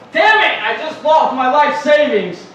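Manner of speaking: high, loud groan of loss, then slow; a white guy cursing his lost savings; gambler's mock outburst. White guy at the casino losing everything, loud dismay. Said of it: "you hear a white guy go".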